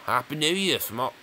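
half-hearted Australian accent, cut short; attempted Australian accent. Shown as a demonstration. Streamer trying New Year greetings in accents, a faltering Australian accent. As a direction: try an Australian accent and give up. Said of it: "I can't do Australian either".

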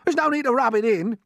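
high, loud wounded retort; snappish earthworm. A narrator's reading. Earthworm rebukes James over his blindness, snapping. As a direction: snap it, deeply offended. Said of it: "snapped the earthworm".

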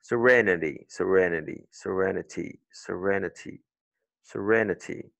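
"serenity" as suh-REN-uh-tee, repeated; weak first vowel, stressed REN in "serenity"; schwa in serenity. Shown as a demonstration. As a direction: drill "serenity" word by word, each falling. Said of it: "utiliser le son schwa".

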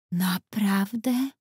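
put-on slow, wide-eyed child's question; a little girl marvelling, drawn out slowly; child amazed by the fairy story. A narrator's reading. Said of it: "patrzyła na mnie zdumiona".

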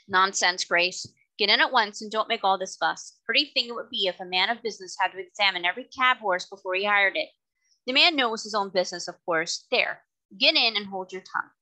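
blustering father. Acted. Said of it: "the blustering man".

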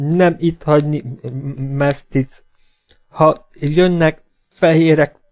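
high, slow, halting frightened plea; begging, teeth chattering. A narrator's reading. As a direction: plead in broken, shivering bursts. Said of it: "könyörgött fogvacogva".

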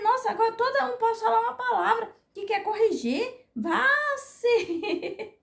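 high, whiny outburst breaking toward laughter; hammed-up rant at being corrected; worked-up exasperation. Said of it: "dá nervoso, meninos". (desabafo nervoso, agudo e exagerado)

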